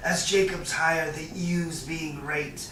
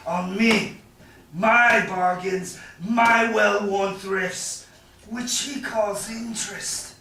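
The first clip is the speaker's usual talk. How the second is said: louder and louder, slowing on each insult; rising anger; 2 semitones higher, 5 dB louder than usual. Acted. Shylock to Antonio over his bargains, building anger. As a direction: pile up the grievances with growing heat.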